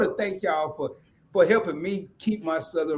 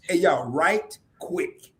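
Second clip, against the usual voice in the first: drawled Southern phrase; much slower than usual. Shown as a demonstration. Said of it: "Can you translate that?".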